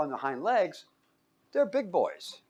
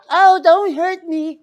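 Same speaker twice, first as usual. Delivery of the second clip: high, slow, whimpering mock plea, much higher and louder; mock frightened plea; 11 dB louder, slower than usual. Preacher mocking how most of us would beg, high and slow. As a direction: ham up a cowering victim begging for mercy. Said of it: "most of us would go".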